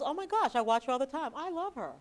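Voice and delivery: high, breathless fan gush; starstruck killer. Retold or imitated. Killer spotting his favorite reporter at the scene, high obsessed gushing. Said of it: "But this guy goes".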